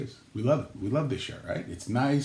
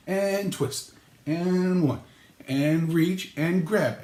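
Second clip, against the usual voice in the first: slow, drawn-out workout count; mock exercise instructor; 4 semitones higher, much slower than usual. Calling exercise moves for passing dishes, mock instructor. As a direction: count out reps like a mock trainer. Mimes an exercise routine at table.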